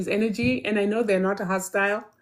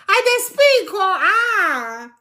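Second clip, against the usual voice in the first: excited boast; 11 semitones higher, 5 dB louder, much slower than usual. Real, not acted. Boasting of speaking Pidgin.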